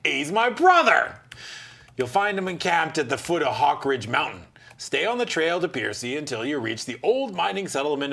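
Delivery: a lightly voiced jovial warrior; hearty host giving directions. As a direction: point the way like a friendly old soldier.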